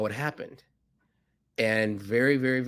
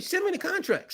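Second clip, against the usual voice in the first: quoting Rajiv. Retold or imitated. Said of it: "He said, he said".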